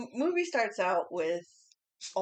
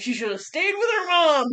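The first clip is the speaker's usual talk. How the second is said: higher, louder exclamation; emphatic outburst; 8 semitones higher, 8 dB louder than usual. Real, not acted. Echoing her co-host, exasperated about the girl, raised and loud. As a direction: throw the line out with mock outrage.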